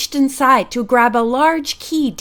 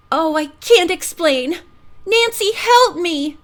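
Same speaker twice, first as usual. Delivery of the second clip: wailing; 6 semitones higher than usual. A narrator's reading. Flustered girl begging Nancy for help, high wail. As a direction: wail to Nancy for rescue, pitched up. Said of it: "the girl wailed".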